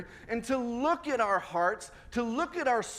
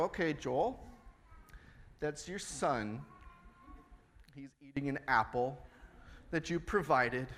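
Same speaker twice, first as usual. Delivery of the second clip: calming self-talk; 5 semitones lower than usual. Retold or imitated. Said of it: "and I go".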